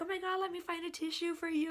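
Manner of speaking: high, fussing sympathy; retold high-voiced concern; imitating concerned boss. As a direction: act out someone flustered by another's tears. Boss reacts to her bawling.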